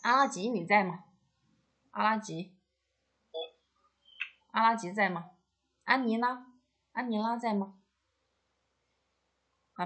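teacher's roll-call projection; calling out names. Real, not acted. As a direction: call out to pupils who may not hear. Calling absent pupils in online class.

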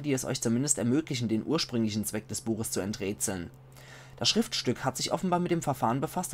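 measured, carefully articulated read-aloud; book narration. A narrator's reading. Player reading a found book's notes to viewers, measured narration. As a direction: read it out like a storyteller.

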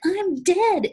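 hammed-up dramatic shriek; mock despairing shriek. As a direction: wail it like it's the end. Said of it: "And he's like".

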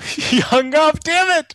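laughing, high-pitched and loud. Real, not acted. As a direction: crack up while talking. Prank caller laughs as victim hangs up.

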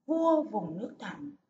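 measured, dignified story reading; storybook opening read with dignity; unhurried, solemn. Shown as a demonstration. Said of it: "đọc với giọng thong thả, trang trọng".

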